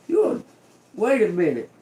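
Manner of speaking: high, loud, half-laughing yell; mock outraged shout. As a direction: blow up at the guest, laughing.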